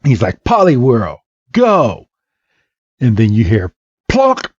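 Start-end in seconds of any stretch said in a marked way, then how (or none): 0.4-2.1 mild acted battle cry; battle command. Trainer sends out his Pokemon. 4.1-4.5 short popped plonk; sudden high plonk; imitated impact noise. Imitates sound of a hit.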